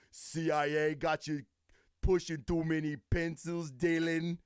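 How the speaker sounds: lightly voiced action-hero impersonation; a half-hearted, badly done movie-star impression; Arnold Schwarzenegger. Host quoting Predator for viewers, badly faked impersonation. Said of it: "there's my fucking, my impersonation".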